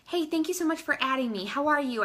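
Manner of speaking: upbeat friendly message read aloud; friendly demo message. Shown as a demonstration. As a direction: read it like a cheerful hello. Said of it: "just say".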